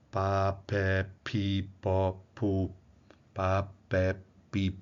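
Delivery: "pa, pé, pi" as separate syllables, voice cut between them; "pa, pé, pi, pó, pu" evenly spaced on a level note; interrupted voicing. Shown as a demonstration. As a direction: stop the voice before every P. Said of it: "A gente interrompe a vibração".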